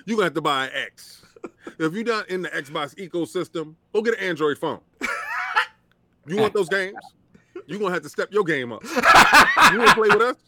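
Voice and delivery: heated, rising anger translator rant; angry translator. Retold or imitated. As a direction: blurt out the boss's real meaning, fired up. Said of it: "the angry dude behind Obama talking".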